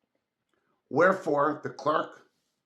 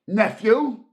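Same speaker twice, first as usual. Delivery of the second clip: higher, louder stern warning; 8 semitones higher, 8 dB louder than usual. Acted. Scrooge sternly silencing his nephew, stern warning. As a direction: cut him off firmly. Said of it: "returned the uncle sternly".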